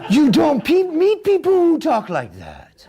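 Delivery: high, loud laughing disbelief. Real, not acted. Ranting about Arnie while laughing. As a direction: laugh through the outrage.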